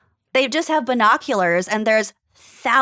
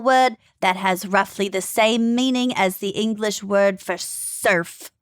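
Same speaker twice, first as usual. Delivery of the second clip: attempted Australian accent, fading at the end. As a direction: try on a light Australian accent. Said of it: "I can't do an Australian accent".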